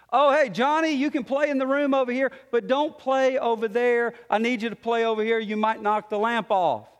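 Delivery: a hint of an upbeat parent giving instructions; acted parent. Parent telling Johnny to play away from the lamp, lightly acted. Parent voiced, warning child.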